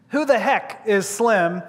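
slow, measured question; deliberate repeat. Retold or imitated. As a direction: quote it slowly and let it hang. Question repeated for the audience to ponder.

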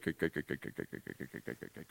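the repeated greats fade down into breathless whisper; voiced to whispered fade; fading to a whisper. Real, not acted. Trailing list of greats into whisper.

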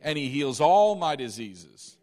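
loud declaration leading the room; group confession. Shown as a demonstration. Preacher leading the congregation's confession, loud and bold. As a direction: proclaim it for all to repeat. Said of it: "Say this with me".

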